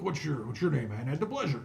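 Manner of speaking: lightly voiced constable asking for an introduction; courteous dwarf constable. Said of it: "he says".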